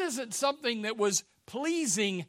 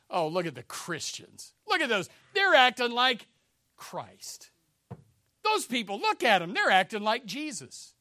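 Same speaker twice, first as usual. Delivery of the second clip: mocking onlookers; 3 semitones higher, 4 dB louder than usual. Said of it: "It was mocking".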